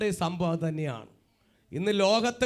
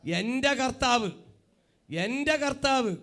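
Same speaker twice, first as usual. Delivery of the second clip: slow, higher, earnest declaration; heartfelt declaration; 6 semitones higher, 3 dB louder, slower than usual. Shown as a demonstration. Preacher shows congregation how to claim their Lord, heartfelt declaration. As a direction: say it slowly and wholeheartedly, drawing out each word. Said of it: "ആത്മാർത്ഥയായിരിക്കണം".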